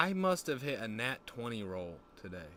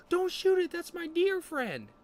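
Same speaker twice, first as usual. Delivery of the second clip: high, loud, panicked plea; shrieky put-on alarm, stretching the end; Danny pleading in alarm; 9 dB louder, slower than usual. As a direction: imitate an innocent animal lover protesting.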